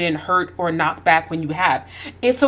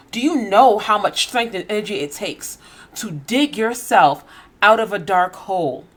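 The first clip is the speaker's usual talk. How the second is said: tearful, breathy whisper, voice almost gone; emotional whisper. Real, not acted. Pleading with critics while fighting back tears, whispered. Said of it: "I'm trying not to get emotional".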